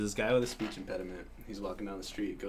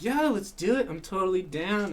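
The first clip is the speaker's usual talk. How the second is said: much higher, bright mock enthusiasm; mock eager; 9 semitones higher, 7 dB louder than usual. Imitating a friend who bails, mock eager. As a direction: ham up her early keenness.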